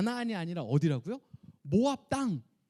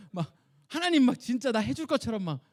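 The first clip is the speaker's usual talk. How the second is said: higher, louder mock rant at God; mock yelling complaint; 5 semitones higher, 6 dB louder than usual. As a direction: keep ranting like a cheated old man. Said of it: "비명 지르면서". (하나님께 투덜대며 소리치는 모세 흉내)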